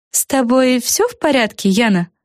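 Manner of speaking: put-on concerned girl. A narrator's reading. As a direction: check on a coughing friend. Fluffanora asks.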